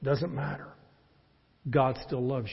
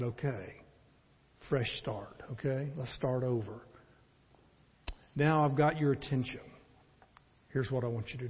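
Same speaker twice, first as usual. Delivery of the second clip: gentle God; 4 dB quieter than usual. Acted. Preacher voices God gently.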